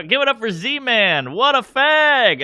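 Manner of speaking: high, loud and slow hyped emcee; comic working a dead banquet crowd, loud; brash stage opener. Retold or imitated. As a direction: bellow it out to the room.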